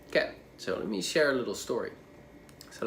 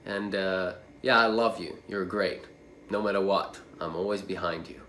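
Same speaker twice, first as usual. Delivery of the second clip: kind loving father. Shown as a demonstration. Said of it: "And your reaction is like".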